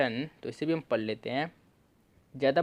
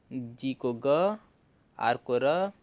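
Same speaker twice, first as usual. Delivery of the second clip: slow sounding out; much slower than usual. Shown as a demonstration. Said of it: "कौन को हम लिख भी देते हैं".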